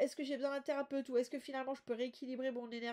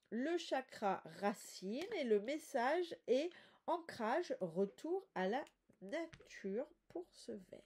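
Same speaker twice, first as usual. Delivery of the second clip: speaking while holding breath; stuffy nose, breath held; blocked nose; slower than usual. Real, not acted. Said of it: "j'ai le nez toujours encombré, je suis en apnée pour vous parler".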